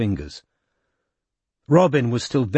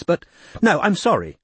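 cross; 8 semitones higher than usual. A narrator's reading. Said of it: "she said crossly".

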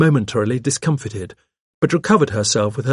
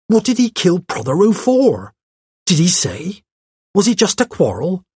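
higher, incredulous secretary; pert secretary, astonished; 5 semitones higher, 3 dB louder than usual. Acted. Secretary amazed that the suspect confessed, incredulous. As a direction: react as a gossipy, amazed girl. Miss Cram's dialogue, dumbfounded.

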